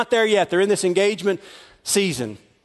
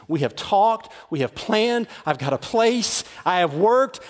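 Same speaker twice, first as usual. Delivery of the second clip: a touch of wounded hurt; 3 dB quieter than usual. Acted. Joseph hurt, betrayed.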